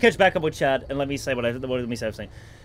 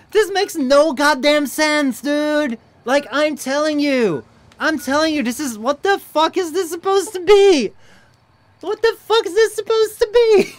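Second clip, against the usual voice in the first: high, drawn-out protest building to a yell; slow, pitched-up frustrated wail; exasperated; 8 semitones higher, 4 dB louder, slower than usual. Real, not acted. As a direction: complain in real disbelief, climbing higher. Exasperated at game making no sense.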